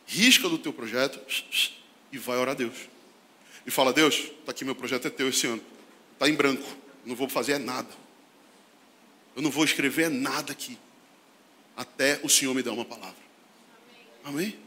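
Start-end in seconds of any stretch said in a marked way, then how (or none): 3.7-14.6 quiet, lowered voice, praying; hushed, low prayer; soft prayer. Shown as a demonstration. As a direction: hand the year over to God softly. Prays softly to God.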